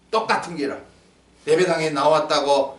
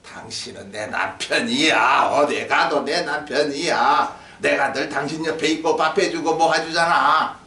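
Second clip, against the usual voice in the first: mock devoted spouse; 4 semitones lower than usual. Preacher voices a spouse's unspoken devotion, mock devoted. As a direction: stretch it out like a wordless vow.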